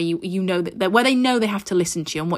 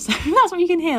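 laughing; 9 semitones higher than usual. Real, not acted. Laughs about aeroplane noise.

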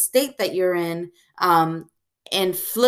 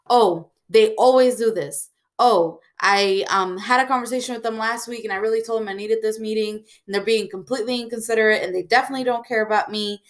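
spiral into a self-righteous grumble about the friend; wound-up hurt friend venting, picking up pace; mock indignant rant; 2 semitones higher than usual. Imagined resentful spiralling thoughts.

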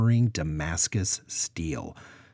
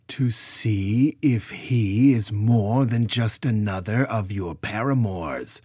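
louder, slow cutting retort; sharp retort; 3 semitones higher, 6 dB louder, slower than usual. Acted. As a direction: fire it back at her. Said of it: "Brona shot back".

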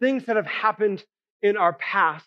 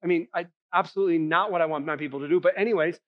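sarcastic God; 3 semitones lower, faster than usual. Retold or imitated. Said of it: "God's like".

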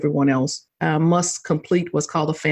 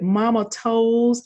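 lightly voiced baby boy, higher and slow; toddler voice; 6 semitones higher, slower than usual. The punchline of the toenail story, a slow lightly voiced toddler. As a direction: coo it slowly like a toddler.

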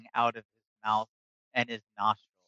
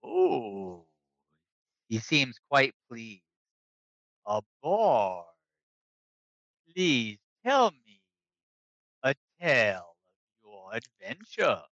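slow, booming dragon; slower than usual. Acted. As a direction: speak as an ancient proud dragon. GM voicing the dragon.

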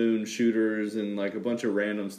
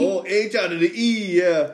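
excited; 7 semitones higher, 5 dB louder than usual. Real, not acted. Echoing the new phrase.

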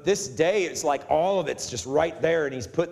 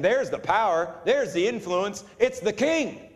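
crowd acclaim; 5 semitones higher than usual. Retold or imitated. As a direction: imitate a crowd's acclaim, rising in pitch. Preacher voices the crowd's acclaim.

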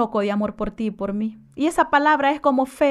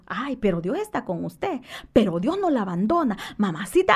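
soft, low reassurance to a troubled client; softly comforting a client with God's closeness; gentle comfort; 4 semitones lower, 5 dB quieter than usual. Retold or imitated. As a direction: soothe her quietly.

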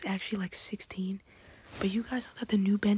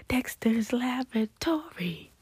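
slow, higher-pitched title announcement; cartoon title impression; 4 semitones higher, slower than usual. Imitates cartoon title after naming it.

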